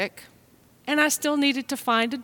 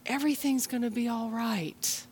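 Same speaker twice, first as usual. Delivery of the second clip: sincere reassurance; 6 dB quieter than usual. Retold or imitated. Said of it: "people who can say to us".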